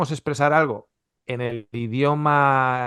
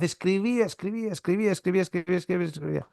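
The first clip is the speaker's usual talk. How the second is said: writing on and on; 4 semitones higher, 6 dB quieter, faster than usual. Retold or imitated. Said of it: "yo escribía cuando estaba en la universidad".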